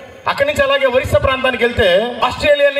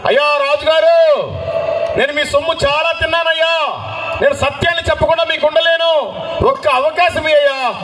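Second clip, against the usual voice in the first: higher-pitched imitation of a shouted plea; retold calling out; 4 semitones higher than usual. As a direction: call out to the king, mildly raised voice. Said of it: "తోమా గారు గట్టిగా అరుస్తున్నాడు". (గట్టిగా అరుస్తున్నట్టు అనుకరణ)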